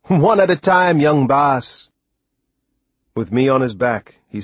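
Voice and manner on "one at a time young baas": hearty West Indian call, high and loud at first; jolly answer, easing down at the end. A narrator's reading. Sailor answers the boy about the cat, hearty. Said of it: "He laughed back heartily".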